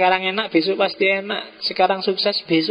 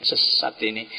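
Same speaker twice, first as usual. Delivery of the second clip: mock condemnation; 6 semitones lower than usual. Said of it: "Yang satu bilang".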